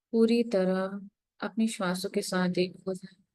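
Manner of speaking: unhurried meditation guidance with long pauses; guided meditation. Real, not acted. Meditation teacher leading the group into breath and gratitude, guided meditation. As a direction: guide them gently inward, pausing between phrases.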